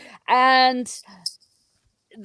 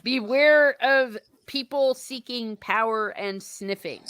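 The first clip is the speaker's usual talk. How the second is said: laughing; 4 semitones higher than usual. Real, not acted. Joking warning after a chat joke.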